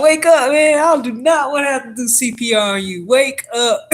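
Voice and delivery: loud, high, urgent shouts to wake him; frantic wake-up shout; urgent yelling. Retold or imitated. Slapping unconscious man awake.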